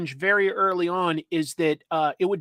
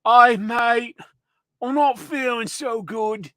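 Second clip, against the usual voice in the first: higher, put-on Australian koala; drawn-out mock Australian accent; 5 semitones higher, 5 dB louder, slower than usual. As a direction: do a shaky attempt at Australian, edging into British. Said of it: "an Australian accent, so he'd be like".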